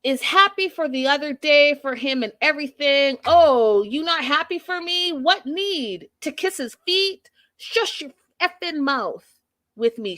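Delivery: hammed-up rage, pitch climbing on every repeated word; mock furious rant. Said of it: "Florian is on one hundred".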